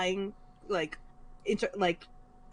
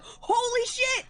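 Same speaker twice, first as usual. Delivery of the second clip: much higher, slow, stretched-out astonishment; amazed mom; 14 semitones higher, 4 dB louder, much slower than usual. Retold or imitated. Mom discovering the TV brightness setting, amazed. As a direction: marvel like you've just discovered magic. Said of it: "She was like".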